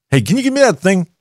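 high, vague mock Biden voice; Joe Biden impression. Host lampooning Biden on air, high put-on voice. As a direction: ask for it like you forgot the word. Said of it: "that's Joe Biden".

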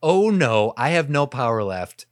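loud, rising dismay; lightly voiced panicked villain; baffled warlock. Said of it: "warlock's standing there like".

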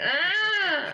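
long, very high held squeal; high-pitched screech. Retold or imitated. Performer mimics a massage table giving way, screeching. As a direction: imitate a table screaming. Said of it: "it screams like".

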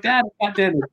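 high-pitched mock exasperation; exasperated sons. Sons reassure dad, exasperated.

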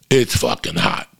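ordinary talk, nothing marked

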